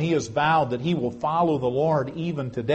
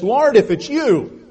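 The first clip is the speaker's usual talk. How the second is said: higher, louder, slow cry of Peter to his Lord; pleading call; 8 semitones higher, 8 dB louder, slower than usual. Retold or imitated. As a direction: call out across the water, slowly. Peter calls to Jesus on water.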